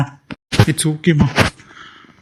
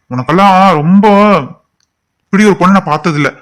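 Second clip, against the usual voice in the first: raised, higher angry voice; rejected lover turns on the girl, angry; angry outburst; 4 semitones higher, 5 dB louder than usual. Acted. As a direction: lash out at her in disgust.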